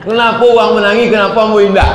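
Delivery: high, loud, fast wail; hammed-up high complaint; mock tearful lament. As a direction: lament like the pilgrim, played for laughs. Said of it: "Itu nama tangi kan".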